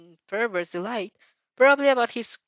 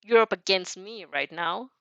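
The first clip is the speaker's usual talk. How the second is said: stoic warning. Acted. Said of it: "Aizawa voice stokily warns him".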